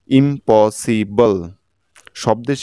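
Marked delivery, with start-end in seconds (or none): 0.1-1.3 ইম্পসিবল very slowly, each syllable separate; syllable-by-syllable pronunciation. Shown as a demonstration. Teacher showing learners the whole word, ইম্পসিবল very slow and segmented. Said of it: "একইভাবে দেখুন".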